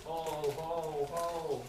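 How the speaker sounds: steady drawn-out hoots; owl hooting. Pretend. Reader imitates Mister Brown's owl, drawn-out hooting. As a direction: hoot gently like an owl. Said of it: "He can sound like a oh".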